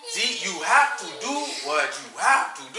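lightly imitated African accent; mildly mimicked African accent. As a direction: put on a hint of an African accent. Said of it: "Got the African accent".

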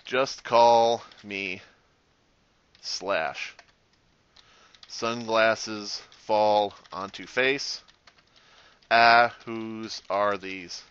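very slow, deadpan delivery with long pauses; mock-cool one-liner. Player hamming up a cheesy sunglasses one-liner, slow deadpan. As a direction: space the words out like an action-hero quip.

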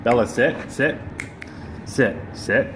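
firm dog command. Real, not acted.

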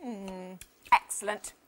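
talking while chewing toffee; words round a pretend chew. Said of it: "Pretend you're chewing a toffee".

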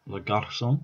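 French attempted in a Scottish accent; learner's French with a Scottish accent. Real, not acted. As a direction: try French through your Scottish accent. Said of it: "saying it very weirdly with a Scottish accent, trying to be French".

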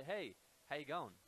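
casual Australian "Hey, how you going", run together; Aussie hello with "how you going" slurred into one; Australian greeting. Shown as a demonstration. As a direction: greet someone in an easy Australian accent. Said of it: "in Australia, we say".

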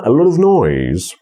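"A" and "of" glued to stressed lot and noise; stressed words, glued weak syllables. Shown as a demonstration. Teacher repeating the example, stress on lot and noise. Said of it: "nieakcentowane sylaby się doklejają dosłownie".

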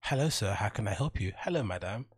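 bright scripted shop assistant voice; mock customer service cheer; training manual greeting. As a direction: chirp it like a rehearsed service script. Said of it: "training manual greetings".

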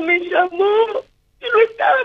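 a mother crying as she speaks of her daughter; real crying. Real, not acted. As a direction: voice breaking into tears, pitch climbing. Madre recuerda la muerte de su hija. (llorando de verdad, con la voz quebrada)

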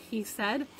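reading a story aloud to the class; lively read-aloud voice; story narration. A narrator's reading. Teacher reads novel to class.

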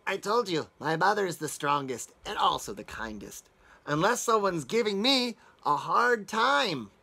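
a lightly voiced little dragon, calm then firmer; baby dragon. Baby dragon answering the wolf, a hint of a little creature. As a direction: state it plainly, then a small warning. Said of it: "replied the baby dragon".

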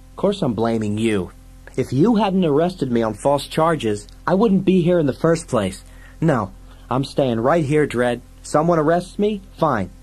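high, indignant complaint; whiny, aggrieved sidekick. Acted. Fergie accuses Dredd of false arrest, high and indignant. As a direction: argue back in a high voice.

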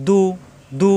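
দু firm, with rounded lips; firm rounded vowel. Shown as a demonstration. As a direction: round both lips tightly on দু. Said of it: "শক্ত হবে".

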